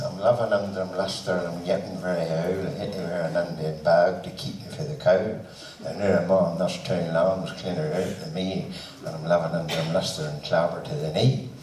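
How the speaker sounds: low, broad Ulster Scots recitation; broad Ulster accent. Shown as a demonstration. Host demonstrating the only way to say the poem, broad Ulster accent. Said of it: "I said it in that broad accent".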